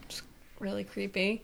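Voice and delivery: hushed, spooked whisper. Real, not acted. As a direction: whisper it like you're creeped out. Whispered reaction to creepy figure.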